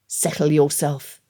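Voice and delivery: low, slow hiss through clenched teeth. Acted. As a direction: clamp down and warn him, slowly. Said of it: "hissed through clenched teeth".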